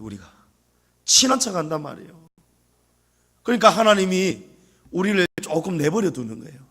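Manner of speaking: ordinary delivery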